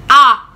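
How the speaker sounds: loud, short "ah" of mock dread; alarmed cry. Child seeing mom bring cane, loud alarmed cry. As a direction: burst out in alarm.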